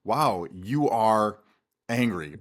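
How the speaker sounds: slow, pointed "Wow, you are angry"; blunt accusing label. Shown as a demonstration. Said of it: "which is very different from".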